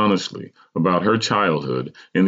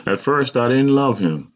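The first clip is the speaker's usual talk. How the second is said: higher, mournful mother's voice; 6 semitones higher than usual. A narrator's reading. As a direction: mourn it gently, pitched up. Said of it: "my mother mourned".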